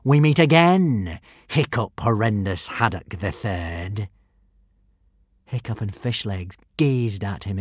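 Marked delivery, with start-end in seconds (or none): 0.0-4.1 slow menacing hiss. Acted. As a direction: hiss the greeting slowly. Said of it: "hissed Alvin".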